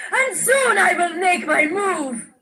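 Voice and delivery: high, slow, menacing villain cry. Acted. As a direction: declare it like a scheming villain. Villainous vow of power.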